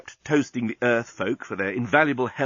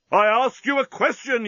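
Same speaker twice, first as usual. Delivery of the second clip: higher, louder angry demand; yell; 11 semitones higher, 4 dB louder than usual. A narrator's reading. Captain yelling at the parrot, loud. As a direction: bark the question at the bird. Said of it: "yelled Bolfas".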